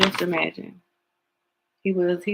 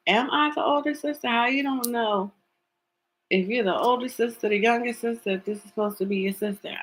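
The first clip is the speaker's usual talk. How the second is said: high, puzzled rising question; a mock-bewildered question; confused question; 4 semitones higher than usual. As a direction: sound unsure whether you're the older sister. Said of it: "She said".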